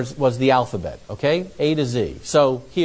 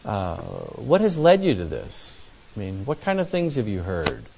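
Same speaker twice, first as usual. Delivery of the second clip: lower, softer, unhurried questioning; calm defusing questions; 5 semitones lower, 3 dB quieter than usual. Acted. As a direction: gently draw an angry person out. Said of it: "try to diffuse the anger".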